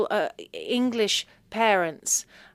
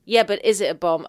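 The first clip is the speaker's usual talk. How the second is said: louder, insistent repeat of the question; mum insisting; 7 dB louder than usual. Retold or imitated. Mum insisting on the bomb question, louder. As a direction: press the question again, louder. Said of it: "She's like".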